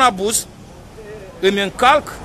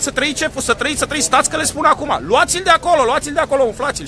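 higher, hurried mock yes-sir voice; flustered subordinate on phone; 5 semitones higher than usual. Chief relaying shouted orders to gendarmes, higher mock bluster. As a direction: play the panicked officer parroting orders. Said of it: "Ăla, în, în telefonul celălalt".

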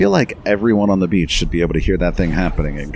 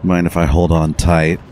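sassy drag queen, a touch louder; aging drag queen voice; 5 dB louder than usual. Acted. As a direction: camp it up like an aging diva. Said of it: "Don't use my aging drag queen voice".

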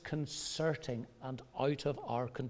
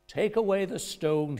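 commanding; 5 semitones higher, 6 dB louder than usual. Retold or imitated. Jesus commands at tomb.

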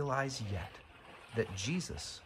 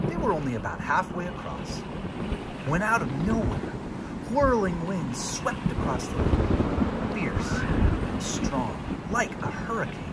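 building, louder and higher as the winds hit; dramatic storm narration; 7 semitones higher, 7 dB louder than usual. A narrator's reading. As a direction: tell it like the storm is crashing in.

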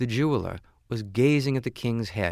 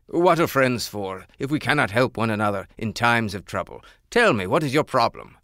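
louder, firm caring king; insistent king; 5 dB louder than usual. Acted. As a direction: press him to speak.

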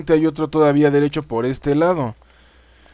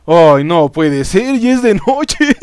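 dismayed exclamation; 2 semitones higher, 5 dB louder, slower than usual. Real, not acted. Player finding it is already night, dismayed wailing. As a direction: wail in disbelief, climbing in pitch. Finds night has fallen outside.

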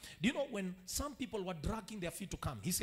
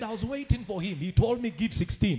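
loud preaching; 10 dB louder than usual. Acted. Preaching climax.

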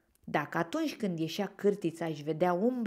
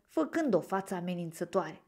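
ordinary delivery, nothing marked

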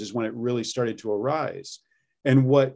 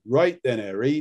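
Hagrid impression. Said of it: "Hagrid from Harry Potter".

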